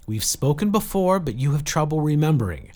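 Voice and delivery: high, projected, pressing explanation; urgent appeal. A narrator's reading. Jill telling Saradwan they are being hunted, urgent. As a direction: press the case loudly into the radio. Pleading for help over the radio.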